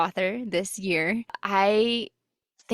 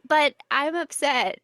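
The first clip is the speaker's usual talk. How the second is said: higher, playful whine; mock whiny; 6 semitones higher than usual. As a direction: pout it like a fretting reader. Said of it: "And I'm like".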